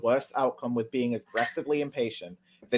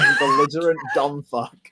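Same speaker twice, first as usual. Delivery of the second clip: angry; 4 semitones higher, 7 dB louder than usual. Acted. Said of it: "You can tell I was angry".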